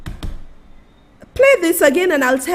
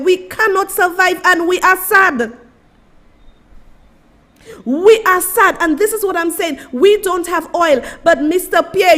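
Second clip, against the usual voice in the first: angry appeal; 4 semitones higher than usual. Real, not acted. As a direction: let him have it, rising outrage. Angry appeal to Mister Pierre.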